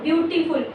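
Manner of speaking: ब्यूटीफुल with slight breaks, beau-ti-ful; ब्यूटीफुल in three quick beats; lightly broken word. Shown as a demonstration. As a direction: lightly mark each syllable of ब्यूटीफुल. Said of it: "तोड़ दिया word को".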